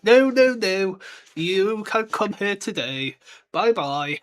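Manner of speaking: lightly voiced Hogwarts official, slow; a hint of a patronising official; mock official reply. Hogwarts answering a late pupil, mock slow.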